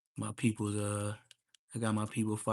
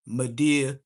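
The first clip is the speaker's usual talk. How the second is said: 1 whispered punchline; 9 dB louder than usual. Real, not acted. Punchline reveal, whispered name.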